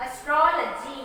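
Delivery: astrology repeated evenly, stress on TRO; careful astrology, stressed on TRO; stress on vowel. Shown as a demonstration. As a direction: model astrology with the O of "tro" held. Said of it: "we are giving stress to the vowel".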